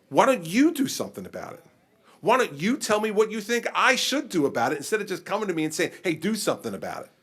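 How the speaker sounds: animated retort. Retold or imitated. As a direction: push it back on them.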